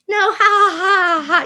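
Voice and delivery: high nervous laughing refusal. Retold or imitated. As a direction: giggle out a panicked no. Nervous refusal acted in retelling.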